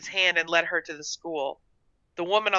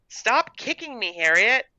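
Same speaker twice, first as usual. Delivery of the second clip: put-on high, exasperated little-girl protest; annoyed complaint; 6 semitones higher than usual. A narrator's reading. Gertrude objects to being kicked under the table, annoyed. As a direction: snap at a pestering sister.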